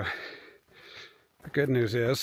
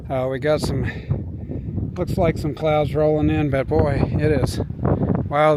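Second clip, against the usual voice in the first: raised voice against the wind; shouting over wind; 6 dB louder than usual. Real, not acted. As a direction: talk loud to beat the gusts. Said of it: "can hear me over the wind noise".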